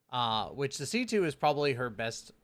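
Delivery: talking through hiccups; words broken by hiccups; hiccuping. Real, not acted. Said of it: "I got the hiccups".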